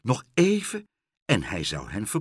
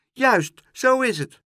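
much higher, loud agreeing cry; animals shouting; 12 semitones higher, 7 dB louder than usual. Acted. The animals shout agreement with Duizeltje, high and loud. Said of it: "riepen de andere dieren".

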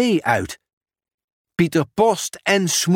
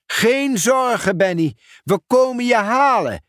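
reassuring call; 8 semitones higher than usual. Acted. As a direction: call out comfort to Benny. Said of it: "riep Pieter Post". (hoog geruststellend roepen)

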